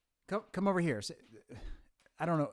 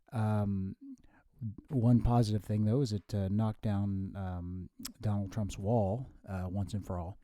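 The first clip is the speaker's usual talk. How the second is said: lightly voiced professorial future self; 4 semitones lower, slower than usual. Future self explains to his younger self, lightly professorial. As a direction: speak low and deliberate, like a lecturer.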